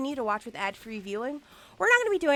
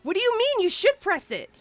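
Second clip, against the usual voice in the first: mock outrage; 11 semitones higher, 6 dB louder than usual. Mock outraged reply to chat.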